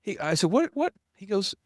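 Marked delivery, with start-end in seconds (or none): 0.5-0.9 high, incredulous stammer; retold indignant disbelief. Stung client to his counselor, retold indignant disbelief. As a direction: act out being thrown and annoyed. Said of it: "it pissed me off".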